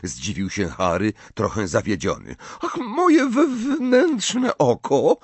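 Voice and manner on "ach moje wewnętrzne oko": high, slow, dignified seer's pronouncement; the offended prophetess declaring with dignity. Acted. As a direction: declare it grandly, pitched up. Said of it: "oświadczyła z godnością".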